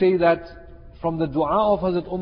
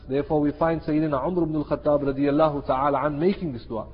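usual speaking voice

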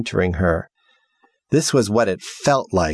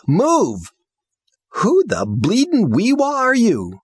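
hostile demand; 13 semitones higher, slower than usual. Acted. Armed girl interrogates the house, high aggressive shout. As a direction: threaten her at gunpoint.

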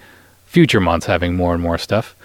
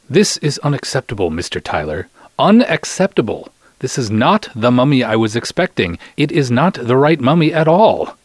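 put-on indignant old Egyptian man; 5 semitones higher than usual. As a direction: scold him like a fussy client let down. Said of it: "That's what the old guy is saying".

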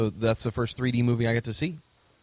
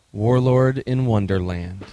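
announcer voice; 7 dB louder, slower than usual. Acted. Announcing the game title.

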